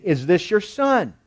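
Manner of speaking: slow, pointed sarcastic question. Acted. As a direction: draw the question out with sarcastic doubt. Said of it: "You could just hear the sarcasm in that".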